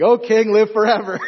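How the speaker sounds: "O king" called up from the den; calling out. Acted. Daniel answering the king from the den, calling out.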